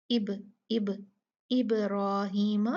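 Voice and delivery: इब इब इब्राहीम slow, ba bounced each time; slow drill, echoing ba; qalqala on ba. Shown as a demonstration. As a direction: echo the ba in इब, then say इब्राहीम. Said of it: "उसको हिला के पढ़ा जाएगा".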